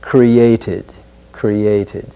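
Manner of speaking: "created" with a crisp t; clear t sound. Shown as a demonstration. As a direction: keep the t in "created". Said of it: "keep the t sound".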